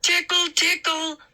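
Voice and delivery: high squeaky tickle voice. A narrator's reading. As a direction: squeak it out playfully. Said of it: "Moose squeaked".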